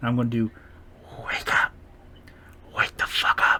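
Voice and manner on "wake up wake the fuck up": breathy, close, intimate whisper. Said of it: "I'm just gonna whisper in Leviticus' ear".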